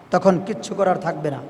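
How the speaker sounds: low, soft preacher's warning; hushed warning. Real, not acted. Preacher warning that nothing can be done, hushed and low. Dropped aside, then repeated aloud.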